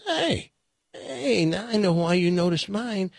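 hey, hey pitched high, eager tourist; excited tourist. Acted. Joke voices the excited tourist.

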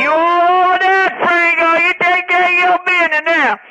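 high excited yelling over music; excited shouting. Real, not acted. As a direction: shout it out, thrilled.

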